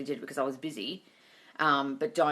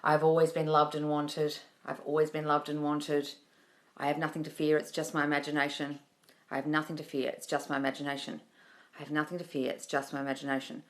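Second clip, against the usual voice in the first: affirmation demo; 3 semitones lower than usual. Shown as a demonstration. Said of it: "You could say".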